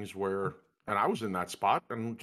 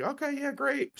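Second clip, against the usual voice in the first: sarcastic okay great. Retold or imitated. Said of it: "be the guy that's like".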